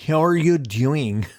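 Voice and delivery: slow and deliberate, leaning into each word; slow, caring check-in. Shown as a demonstration. Host asks listeners how they are, slow and caring. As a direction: ask it like a gentle therapist holding space. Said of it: "I'll hold space for you".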